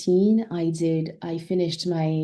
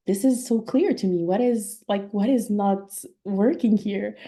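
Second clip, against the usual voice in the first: put-on baffled child; 3 semitones higher than usual. Young girl protesting to a classmate, mildly exasperated. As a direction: retell your own confused protest as a kid. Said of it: "And I was like".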